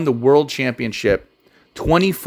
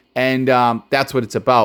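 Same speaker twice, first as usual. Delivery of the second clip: ordinary talk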